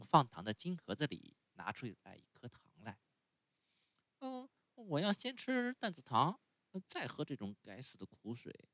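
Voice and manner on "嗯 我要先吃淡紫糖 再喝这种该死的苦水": put-on much higher, whiny little boy; puppet boy voice. A narrator's reading. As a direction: sulk like a spoiled child refusing medicine. Pinocchio voiced in story.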